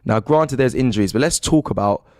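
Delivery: upbeat stream host voice; presenter voice. Acted. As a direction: address the viewers brightly. Host addresses the audience.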